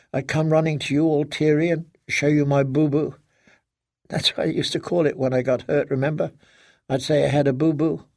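lightly voiced, wistful little-girl tone; childlike daughter. Daughter reminding father of childhood boo-boos, wistful.

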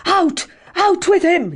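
high, furious yell. Acted. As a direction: roar at the servants. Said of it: "he yelled".

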